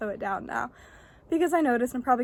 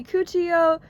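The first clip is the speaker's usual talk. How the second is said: drawn-out product name; 3 semitones higher, 3 dB louder, much slower than usual. Shown as a demonstration. Presenting a product to viewers, drawn out slowly. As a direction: say Cuccio Yoga very slowly, syllable by syllable. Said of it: "that's why I said it like that".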